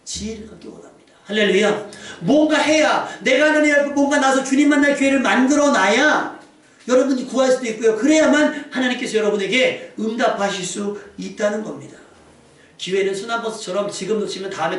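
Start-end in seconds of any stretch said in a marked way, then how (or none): 2.2-12.0 raised, urgent pulpit voice; forceful preaching. Real, not acted. Preacher urging worshippers to seize the chance, forceful preaching. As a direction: press the exhortation on the congregation.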